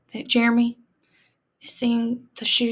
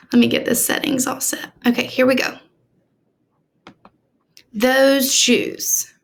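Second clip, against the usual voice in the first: story reading. Acted. Teacher reads story aloud.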